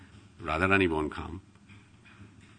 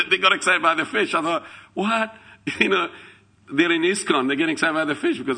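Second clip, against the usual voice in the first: amused; 9 semitones higher, 4 dB louder than usual. Real, not acted. Amused retelling.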